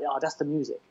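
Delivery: soft, appreciative aside; goes quiet. Shown as a demonstration. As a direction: drop right down after the beat. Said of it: "It's when he goes quiet".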